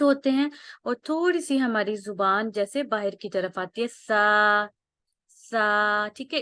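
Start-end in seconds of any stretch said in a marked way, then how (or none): 3.9-4.7 سا with the tongue tip slightly out, no whistle; letter demo. Shown as a demonstration. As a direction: say سا lisped between the teeth, no hiss. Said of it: "تو سا ادا کرتے ہوئے جو ہماری زبان".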